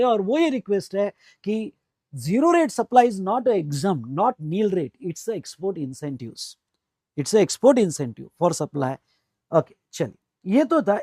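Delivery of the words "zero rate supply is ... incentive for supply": slow dictated request. Shown as a demonstration. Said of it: "मेरी एक request है आपसे".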